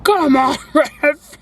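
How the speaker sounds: mock shout at the referee; imitated sideline yell. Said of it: "He's like".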